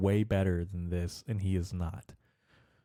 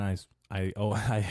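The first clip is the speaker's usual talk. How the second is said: tongue-tied stammer; stumbling over words. Real, not acted. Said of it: "I'm tripping over my own fucking voice".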